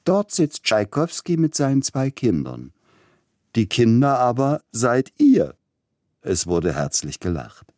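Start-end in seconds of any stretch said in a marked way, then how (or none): 0.0-5.6 much higher, prim lecturing lady; a fussy lady teaching her daughter; mother pointing out the stage to her daughter, higher prim voice; Leipzig lady. A narrator's reading. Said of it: "sprach die Dame".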